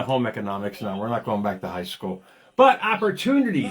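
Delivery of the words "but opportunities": laughing. Real, not acted. Laughing self-correction back to topic.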